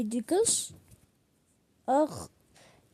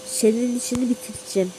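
menacing villain voice; 3 semitones lower, 7 dB quieter, faster than usual. Pretend. Villain threatens the apple character.

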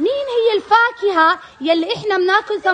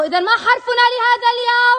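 calling out; 4 semitones higher than usual. Real, not acted. Teacher calls out to class.

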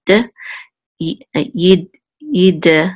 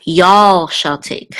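slow, folksy y'all shall take; playful y'all; slower than usual. Shown as a demonstration. Teacher joking about a plural you, playful. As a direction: drawl it for fun. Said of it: "this is actually plural".

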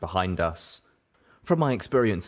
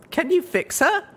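high, louder exasperated pony voice; higher, louder exasperated mare; 5 dB louder than usual. Acted. Heroine snapping at Calamity about his helmet, high and exasperated. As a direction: cut him off, impatient, pitched up high. Littlepip asks urgently.

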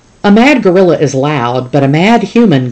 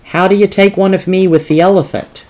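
boss voice; 5 semitones higher, 3 dB louder, faster than usual. Acted. Boss asks for a photo.

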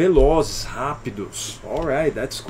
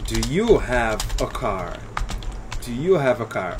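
slow dictation; 4 semitones lower than usual. Shown as a demonstration. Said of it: "a pergunta é".

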